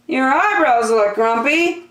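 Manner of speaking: high, fast curious question; a nosy lemur quizzing him; chirpy lemur. Acted. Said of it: "said Lemur".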